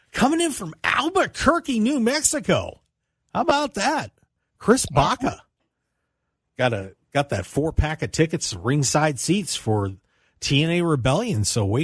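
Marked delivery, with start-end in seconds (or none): 0.1-5.4 high-pitched, upbeat winner reveal; excited announcement. Real, not acted. Radio host announcing the ticket winner to listeners, excited and much higher. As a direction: pitch it up like a game show host naming the winner.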